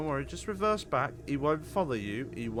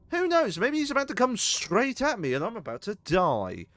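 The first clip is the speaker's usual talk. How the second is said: mock dread; 9 semitones higher, 4 dB louder than usual. Real, not acted.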